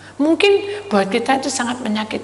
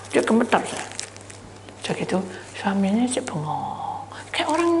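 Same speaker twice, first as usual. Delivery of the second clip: normal talking voice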